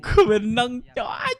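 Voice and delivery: high shrieking laugh of victory; shrieking jackpot winner. Real, not acted. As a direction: squeal with laughter, you just won. Shrieks after winning a bet.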